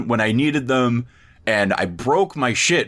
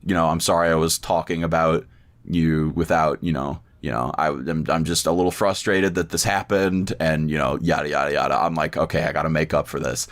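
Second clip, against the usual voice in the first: forced nice face; 8 semitones lower, faster than usual. Retold or imitated. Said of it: "put on the fucking face".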